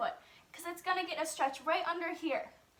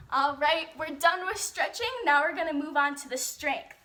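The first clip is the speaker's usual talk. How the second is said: louder, calling the class to the next part; loud announcement; 6 dB louder than usual. Real, not acted. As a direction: announce it to the whole room. Announcing next section loudly.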